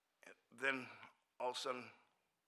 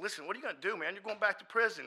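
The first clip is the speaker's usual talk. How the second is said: high, raised-voice confrontation; retold yelling; 8 semitones higher, 8 dB louder, faster than usual. Confronting a friend headed to prison, raised-voice scolding. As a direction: confront him with a mild retold yell. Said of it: "two floors heard me yelling at him".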